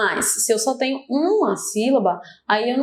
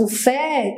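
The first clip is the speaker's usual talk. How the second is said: "fé" held longer than usual; dragged stressed syllable; 4 semitones higher than usual. Shown as a demonstration. Teacher isolating the strong syllable, stretched stress. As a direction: lean on "fé" and stretch it. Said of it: "ele se afasta mais".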